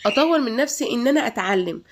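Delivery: breathy whisper, almost secret. Real, not acted. Vlogger whispering her own goal to viewers. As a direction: drop to a whisper as if sharing a private goal. Sudden whisper about self-improvement.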